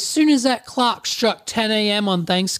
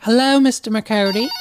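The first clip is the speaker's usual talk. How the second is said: wobbly phone impression, pitched up; higher put-on greeting lifting at the end; Susan; 4 semitones higher, 3 dB louder than usual. Receptionist phoning a hotel guest, chirpy impression. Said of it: "my voice impression keeps changing".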